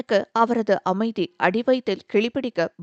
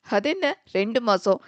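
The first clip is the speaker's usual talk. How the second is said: teasing. Acted. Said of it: "நக்கலாக கேட்க".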